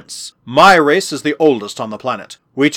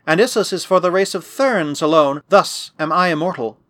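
lightly voiced lofty girl, higher pitch; a hint of a haughty believer, pitched up; proud holy girl; 4 semitones higher than usual. Girl declaring her immortality to her captor, lightly haughty.

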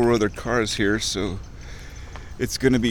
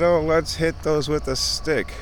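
put-on kid voice; 6 semitones higher than usual. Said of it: "they said".

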